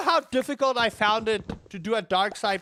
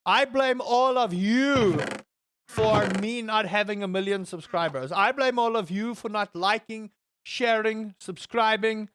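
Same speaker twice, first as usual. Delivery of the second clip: sarcastic; 2 semitones higher than usual. Pretend. Streamer jokingly blaming viewers for poor subscriber numbers, sarcastic. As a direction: blame them with exaggerated conviction. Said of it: "I'm being sarcastic".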